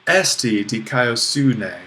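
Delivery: slow, with "Esti" stressed and falling; emphatic. Shown as a demonstration. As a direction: insist that justice exists, starting on "Esti". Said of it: "I'm here to say, esti".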